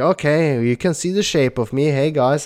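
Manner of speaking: ordinary delivery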